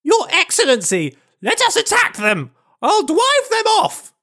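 high, pleading officer voice; eager officer voice. Acted. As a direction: beg the colonel to let you attack. Denisov begs the colonel.

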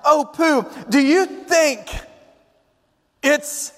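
high, halting excited little voice; excited squeal. A narrator's reading. Piglet asks Pooh about the tracks, high excited voice. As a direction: squeak it with suspenseful pauses. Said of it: "He gave an exciting squeal of excitement".

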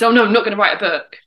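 loud, fast brush-off; hammed-up no way; mock refusal. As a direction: blurt it out quickly to dismiss the idea. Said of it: "I was".

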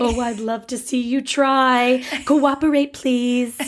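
slow, lightly put-on movie line; Steel Magnolias quote. Co-host joining friend's movie bit, lightly acted impression. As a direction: echo the film line in character. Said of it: "Steel Magnolias".

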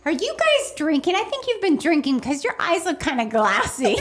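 laughing. Retold or imitated. Blurting the glass eye joke.

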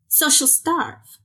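mock weary mother; exasperated mother. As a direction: throw up your hands at the fussy kid. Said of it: "her mother said".

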